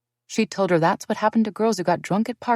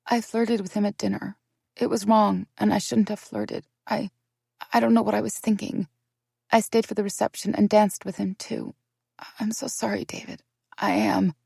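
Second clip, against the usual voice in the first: raised, pleading apology; tearful confession; 4 semitones higher than usual. Acted. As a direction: beg forgiveness near tears.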